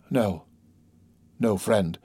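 doctor softly soothing a dying patient; quiet and grave, with pauses; gentle consolation. A narrator's reading.

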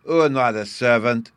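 put-on loud scornful little boy; scornful child. A narrator's reading. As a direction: scoff at him like a child. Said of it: "Bruno scornfully exclaimed".

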